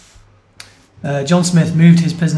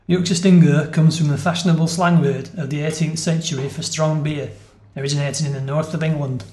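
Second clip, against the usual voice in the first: Yorkshire accent. Shown as a demonstration. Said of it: "I should do this in the accent".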